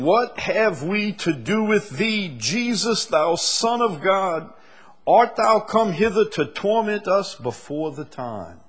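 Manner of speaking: high, loud anguished cry of the demons; scripture shouted at full force. Acted. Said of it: "The demons cried out, saying".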